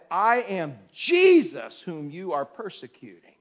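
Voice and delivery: slow, solemn declaration as Jesus. Acted. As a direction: speak slowly as the risen Lord. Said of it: "And he said".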